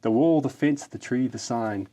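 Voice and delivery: grand, hammed-up ode reading; mock-solemn ode to a kickstand; mock-heroic poem recital. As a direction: declaim it like solemn verse.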